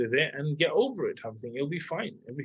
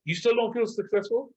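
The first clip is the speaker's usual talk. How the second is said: surprised disbelief; 8 semitones higher than usual. Retold or imitated. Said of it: "And I'm like".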